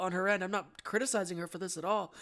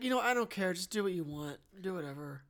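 mock giving-up, sinking lower and softer; imitated indifferent director; 4 semitones lower, 3 dB quieter than usual. Co-host voices director giving up on the accent, indifferent. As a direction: wave it away, trailing down as you go. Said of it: "Michael Mann's like".

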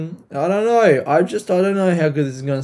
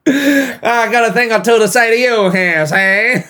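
loud, high hammed-up threat; mock tough talk; 7 semitones higher, 4 dB louder than usual. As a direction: play a cartoonish tough character squaring up. Play-acts an old-fashioned threat.

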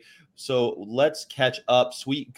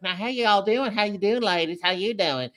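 put-on higher-pitched Southern accent greeting; friend's Southern accent; 6 semitones higher than usual. Forward friend greets women in a South Carolina Waffle House, imitated Southern accent. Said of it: "he had one of them accents. He talked like this".

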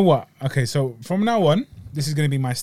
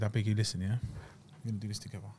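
ASMR whisper voice; 6 semitones lower, 14 dB quieter, much faster than usual. Real, not acted. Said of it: "You dirty boy".

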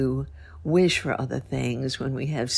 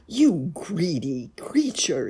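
angry cry. Acted. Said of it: "he cried".

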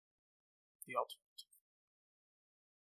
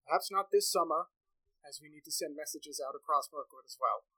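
a hint of a cautious village elder, a bit higher; lightly voiced elder Ingomer; 3 semitones higher than usual. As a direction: sound like a wary elder doubting the warning.

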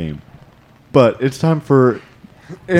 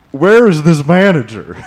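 angry soccer mom voice; 6 semitones higher, 5 dB louder than usual. Acted. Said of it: "This is my customer service voice".

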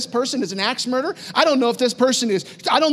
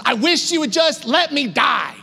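higher, slow, mock-tantrum cry; throwing a fit; 4 semitones higher than usual. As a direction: imitate Jonah's fit, dragging out each word. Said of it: "Jonah is throwing a fit".

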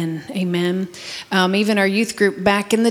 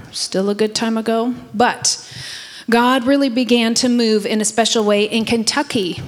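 teacher voice. Shown as a demonstration. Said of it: "read in my teacher voice for you".

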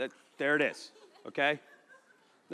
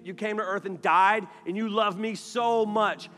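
lightly raised defiant brute voice; barbarian; 3 semitones higher than usual. Acted. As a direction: talk back like a stubborn caveman. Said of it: "It started saying".

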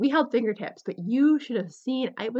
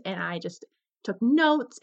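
usual speaking voice

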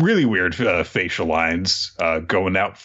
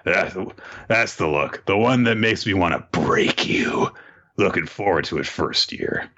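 menacing senior; 3 semitones lower than usual. Acted. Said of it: "He's like".

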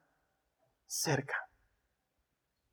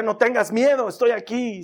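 louder, higher call; calling from far; 5 semitones higher, 5 dB louder than usual. Pretend. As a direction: call out as if from a distance. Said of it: "Te diría".

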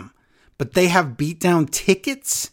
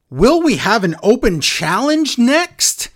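mock commentator question; 7 semitones higher, 4 dB louder than usual. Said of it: "Cole asks".

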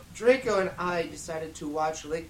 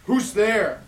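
mock shout; 4 semitones higher, 8 dB louder than usual. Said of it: "he shouted angrily".

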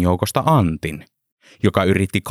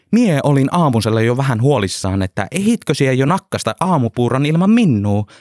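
excited whoop, higher and louder; 6 semitones higher, 3 dB louder than usual. Acted. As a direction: gush with delight at seeing a friend. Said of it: "Henttonen hihkui". (innostunut hihkaisu)

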